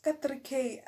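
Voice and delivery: can't believe the price; shocked questioning; incredulous. Retold or imitated. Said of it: "I'm like".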